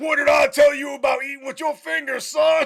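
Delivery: high-pitched, loud, barking drill sergeant style yell. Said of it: "He just yells at everybody".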